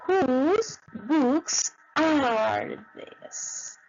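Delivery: "Whose books are these?" drawn out very slowly; slow model question. Shown as a demonstration. Teacher modelling the plural question very slowly. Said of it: "So you say".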